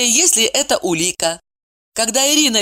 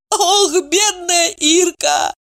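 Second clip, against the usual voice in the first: sobbing sigh; 11 semitones higher, much slower than usual. A narrator's reading. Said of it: "всхлипнула Ева".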